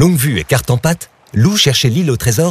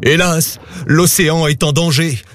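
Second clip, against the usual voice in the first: higher, mildly sorrowful lament; sighing; 5 semitones higher than usual. A narrator's reading. Poséidon reveals the danger to Loup, sighing. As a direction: lament it with a touch of a sigh. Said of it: "soupira Poséidon".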